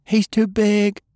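frantic woman's voice, pitched high; straining young woman. Acted. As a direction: push it out high under strain. Fay voiced in the scene.

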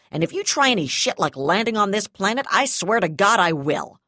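grind out the threat, then explode; angry threat. Acted. Prisoner-threat standoff, rising fury.

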